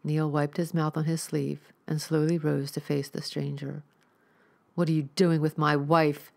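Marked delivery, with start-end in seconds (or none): 4.7-6.3 demanding. Acted. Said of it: "he demanded".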